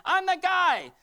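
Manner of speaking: very high, loud acted shouting; dramatic insistence. Preacher acting the healed man for the congregation, dramatic shout. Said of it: "No, it's dramatic".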